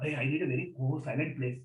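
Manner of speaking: a soft, fussy mock of a seeker demanding calm; lightly hushed, acting out a precious meditator. Teacher mocking students who need silence, hushed fussy tone.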